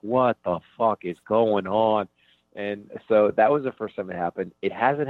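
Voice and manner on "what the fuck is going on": baffled audience. Retold or imitated. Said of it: "the audience is like".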